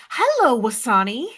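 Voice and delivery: very high, overly proper hello; high proper greeting. Retold or imitated. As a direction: greet the baby brother like a tiny adult, pitched high. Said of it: "you were like".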